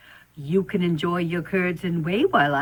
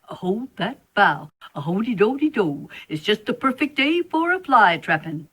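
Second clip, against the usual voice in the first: sing-song spider; 3 semitones higher than usual. Acted. Spider sings again.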